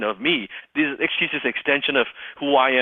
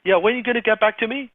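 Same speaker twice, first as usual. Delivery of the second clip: high, eager pushover salesman; mock a timid salesperson; weak salesperson; 10 semitones higher than usual. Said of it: "Most salespeople say".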